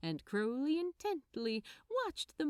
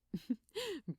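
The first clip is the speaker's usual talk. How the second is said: grinning laugh; 5 semitones higher, 4 dB quieter than usual. Acted. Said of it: "Aziraphale grinned".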